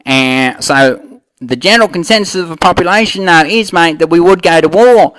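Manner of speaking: lightly put-on Aussie accent; Australian bloke. Aussie guest answering the host about the war, mild Australian accent. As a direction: play the Aussie mate, easygoing. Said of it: "Australian, what are we calling you now?".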